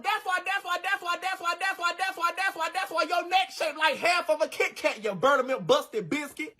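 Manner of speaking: high, soft looping "that's why"; mock stuck record; stuck repeating. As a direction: stall like a skipping record. Stuttering repeated lead-in.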